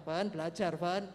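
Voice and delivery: loud, brief retold reminder; calling out. Father calls his son to study, retold loud call. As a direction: call to the son loudly without raising pitch.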